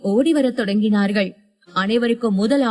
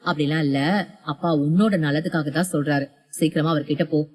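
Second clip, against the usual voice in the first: low, hushed man's voice; a dead husband holding her back, low and quiet; ghostly husband; 6 semitones lower, 3 dB quieter, faster than usual. A narrator's reading. The husband's ghost keeps his wife from the door, low and hushed.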